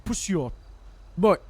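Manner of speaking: clipped practice words in mock British; amateur British accent; put-on British accent. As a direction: try the British slang accent on single words. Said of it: "cook in this accent".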